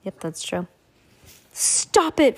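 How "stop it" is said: put-on girl's voice, pitched up; high girl voice. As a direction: voice Violet high and firm. Violet pleads.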